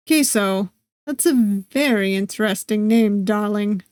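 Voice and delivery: a suave vampire savouring "darling"; light Eastern European accent. Acted. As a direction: purr "Queso" like a foreign word he's never heard. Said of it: "The way the word queso rolls off his tongue feels odd".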